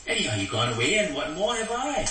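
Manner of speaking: a hint of Micah lamenting; aggrieved Micah. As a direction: voice the wronged idol maker. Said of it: "But then he said that".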